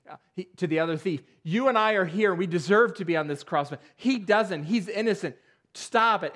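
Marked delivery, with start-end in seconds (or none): 1.4-6.3 rebuking. Retold or imitated. Thief rebukes the other thief.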